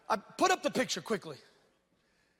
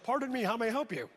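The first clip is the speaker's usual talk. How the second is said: lightly put-on proper phone voice; a hint of formal, polite call-answering; legit voice. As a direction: answer like it's an official caller. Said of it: "I put my legit voice".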